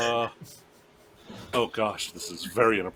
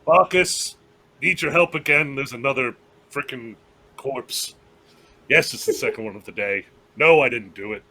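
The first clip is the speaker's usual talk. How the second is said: louder exasperated call for help; exasperated plea; 2 semitones higher, 5 dB louder than usual. Acted. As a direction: hail a friend, fed up and urgent. Character pleads for help with corpse.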